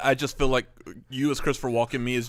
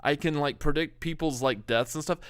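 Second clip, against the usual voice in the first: Woody Allen impression; 3 semitones higher than usual. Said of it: "Woody Allen's character is like".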